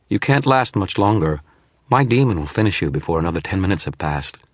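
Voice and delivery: lightly voiced, supremely confident shadow; smug shadow. Hologram sorcerer gloating at Dresden, lightly voiced smugness. Shadow image taunting the wizard.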